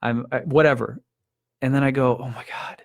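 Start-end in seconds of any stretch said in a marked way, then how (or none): 2.2-2.8 whispered relieved oh my God; breathless relief. Retold or imitated. Relief on finding daughter.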